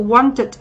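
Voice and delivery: "wanted" with the ending as its own syllable; "wanted" pronounced carefully as want-id; model pronunciation. Shown as a demonstration. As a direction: sound out both syllables of "wanted". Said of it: "chúng ta sẽ đọc cái đuôi".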